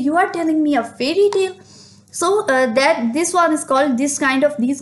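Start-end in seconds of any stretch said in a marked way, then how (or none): 0.1-1.5 rushed, higher and lighter; euphemistic version. Shown as a demonstration. Teacher giving the softened version to the class, rushed and higher. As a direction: toss it off quickly, pitched up. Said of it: "there you say".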